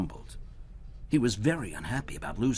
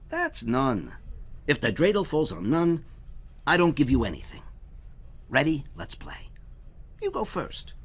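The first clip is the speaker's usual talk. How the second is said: higher, louder sly teacher voice; Herschel explaining; 5 semitones higher, 4 dB louder than usual. Acted. Herschel teaches the goblin the dreidel rules, sly. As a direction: lay out the rules with a crafty grin.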